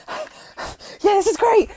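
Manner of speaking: high, airy mock delight; mock excited. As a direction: squeal it out, half joking. Mock reaction while reading notes.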